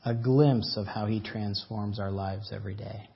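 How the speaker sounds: earnest pastor addressing the congregation; sermon preaching. Acted. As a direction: preach it with steady conviction.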